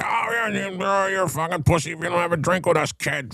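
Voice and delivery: high mocking Boston drinker voice; hammed-up taunting relatives. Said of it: "they're like".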